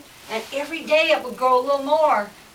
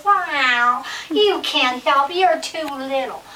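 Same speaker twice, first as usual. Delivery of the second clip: slow, meowing cat voice; dismissive cat; 3 semitones higher, 5 dB louder, slower than usual. Acted. Cat turns down the little mouse, dismissive drawl. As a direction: draw it out, brushing off the little helper. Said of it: "Oh, the cat says".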